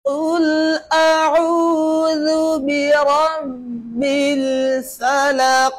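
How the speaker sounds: slow, drawn-out Quran recitation. Shown as a demonstration. Teacher recites slowly for the child to copy. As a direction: chant each word slowly and clearly.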